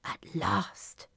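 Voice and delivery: soft, hushed aside; whispering. A narrator's reading. Fairy at the party, whispering in relief. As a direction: say it softly under your breath. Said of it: "Lily whispered".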